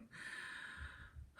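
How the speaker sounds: strained breathy grunt; effort grunt. Real, not acted. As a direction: let out a tired grunt. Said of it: "Sorry, we're grunting the whole time".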